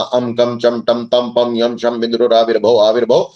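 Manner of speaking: steady, even-pitched devotional chant in an unbroken flow; Sanskrit stotra recitation. Acted. Devotee reciting Kunjika Stotra for listeners' blessing, rhythmic Sanskrit recitation. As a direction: recite the mantras fluently, running the verses together.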